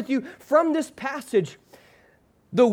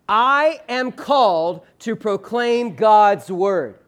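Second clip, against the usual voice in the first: slow, every word given its own weight; a deliberate congregational read-aloud pace; slow unison recitation; 3 dB louder, much slower than usual. Shown as a demonstration. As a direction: lead the room through it word by word. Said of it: "I want us in unison to read".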